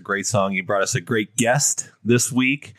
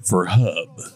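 movie trailer voice. Acted. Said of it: "Is that your trailer voice?".

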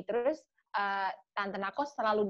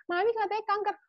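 retold crying; 11 semitones higher than usual. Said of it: "Gue nangis".

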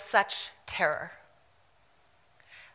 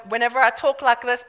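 quick switch into South African accent; brisk South African accent demo; faster than usual. Shown as a demonstration. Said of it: "when I'm around South Africans".

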